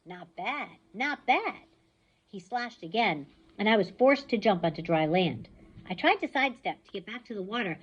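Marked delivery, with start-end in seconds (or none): 0.0-1.6 amused. Acted. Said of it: "He grinned".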